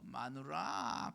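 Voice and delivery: put-on long drawn-out, softened drunken call; drunken husband. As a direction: lightly mimic a drunk calling for his wife. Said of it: "완전히 만취돼가지고 들어왔어". (술 취한 남편 흉내로 길게 늘여 부르기)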